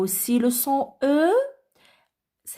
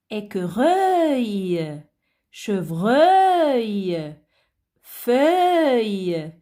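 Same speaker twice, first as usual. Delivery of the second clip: slow careful reading; much slower than usual. Shown as a demonstration. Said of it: "Quels sont identiques entre les trois images".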